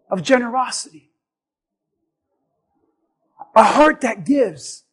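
God gently answering the demanding believer; gentle voice of God. Acted. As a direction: speak as God, tender and patient.

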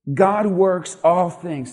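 slow, each word placed; slow statement. Shown as a demonstration. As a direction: lay it down slowly for them to repeat. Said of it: "Say that with me".

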